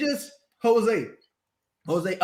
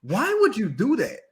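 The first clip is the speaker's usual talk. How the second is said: exasperated Joel Myers. Retold or imitated. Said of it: "Joel Myers is just like".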